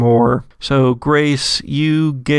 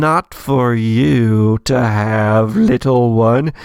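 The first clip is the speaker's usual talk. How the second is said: echoing possessive voice; slower than usual. Acted. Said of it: "echoes through your head and says".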